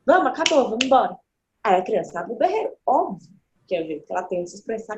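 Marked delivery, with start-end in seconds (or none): 0.1-1.2 louder, higher, curt parent calling time; impatient parent. Retold or imitated. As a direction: cut the fun off abruptly. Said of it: "os pais fazem isso com a criança". (pai impaciente, mais alto e seco)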